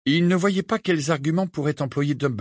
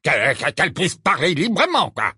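annoyed; 5 semitones higher, 3 dB louder than usual. Acted. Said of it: "d'un ton agacé".

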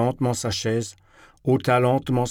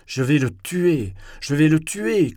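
squeaky outburst; 5 semitones higher, 3 dB louder than usual. A narrator's reading. Narrator squealing threats at Lisa, rising shrill outburst. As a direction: pitch climbing into a squeal, louder at the end. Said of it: "couinai-je en cognant sur la table".

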